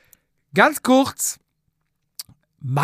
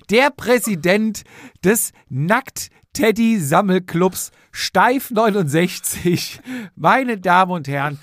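announcer introduction. Acted.

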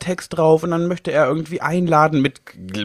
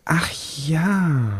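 geflüstert; 3 semitones higher than usual. Real, not acted. Reacts to the winter party topic.

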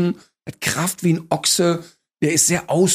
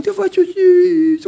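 high, slow, louder cooing voice; gushing dog owner; 6 dB louder, slower than usual. Retold or imitated. Dog owners recalling their puppy, high gushing coo. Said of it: "und sagen".

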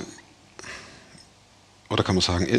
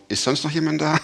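mock desperate shout; 5 semitones higher than usual. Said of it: "schreit der Typ da oben".

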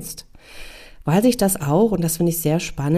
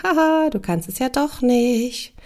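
taunting guilty conscience; 4 semitones higher than usual. Acted. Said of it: "blitzt das schlechte Gewissen auf und sagt".

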